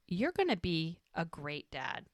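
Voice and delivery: soft, gently voiced compliment; retold heartfelt praise, hushed a little; sincere. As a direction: say it softly, as if truly meant. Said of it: "she really does mean this".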